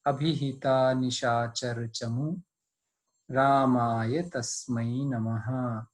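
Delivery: slow, measured shloka chant; Sanskrit recitation. Shown as a demonstration. Teacher recites the Sanskrit verse for students, slow chant. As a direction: recite the verse slowly and evenly.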